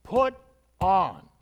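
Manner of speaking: loud, high command; sharp loud command. Shown as a demonstration. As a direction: bark the order like a sergeant. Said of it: "It's a command".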